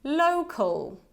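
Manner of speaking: local, said clearly with a final schwa-l; model word local. Shown as a demonstration. Teacher models local for students to repeat. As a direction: say local slowly for the class to repeat. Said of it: "Repeat after me".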